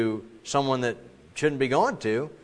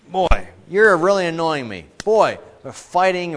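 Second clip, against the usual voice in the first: mock bickering kid; 5 semitones higher, 8 dB louder than usual. Acted quarrel between bickering kids.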